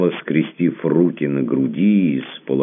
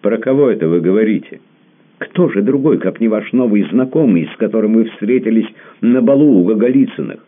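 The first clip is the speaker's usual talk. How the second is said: jealous accusation; 9 semitones higher, 7 dB louder than usual. Acted.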